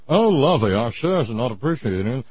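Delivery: rich snob speaking through clenched teeth; Thurston Howell through gritted teeth. Retold or imitated. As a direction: talk through your teeth like old money. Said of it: "talk through their teeth".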